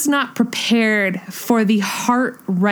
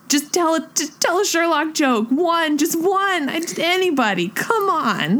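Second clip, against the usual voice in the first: mock pleading; 5 semitones higher than usual. Pleading to Marvel writers.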